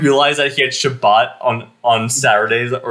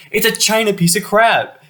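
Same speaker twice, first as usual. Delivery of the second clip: high mock outrage; 10 semitones higher than usual. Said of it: "he's like".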